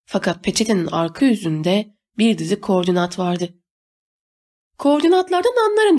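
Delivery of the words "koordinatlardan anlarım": much higher, eager and bright burst; excited. A narrator's reading. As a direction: jump in keen to help. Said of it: "dedi Millard heyecanla".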